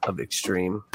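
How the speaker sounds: upbeat host opening the show; show intro announcer. Acted.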